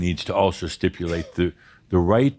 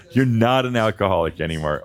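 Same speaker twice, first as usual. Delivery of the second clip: lightly laughing as you reassure the group; amused teasing. Real, not acted. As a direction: tease through leftover laughter. Teasing amid shared laughter.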